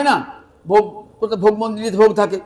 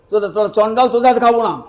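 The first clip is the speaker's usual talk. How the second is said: acted indignant refusal; 3 semitones higher, 5 dB louder than usual. Guest refuses food from the Chandal's hand, acted indignation. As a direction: refuse with a touch of haughty force.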